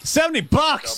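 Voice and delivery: high squeaky disbelief at the price; real shocked squeak at a ticket price; incredulous. Real, not acted. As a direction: shoot way up in pitch on Seventy. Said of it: "His tickets are not seventy bucks".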